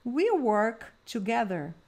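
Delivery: slow, clear drill sentence; slow drill model. Shown as a demonstration. Teacher leading a repeat-after-me drill, slow. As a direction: model it slowly so they can repeat. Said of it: "Vamos lá".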